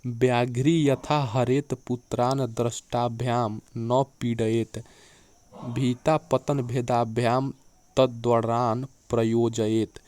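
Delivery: sanskrit verse recitation. Shown as a demonstration. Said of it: "क्या लिखा है शुद्ध उच्चारण के बारे में, पढ़ते हैं".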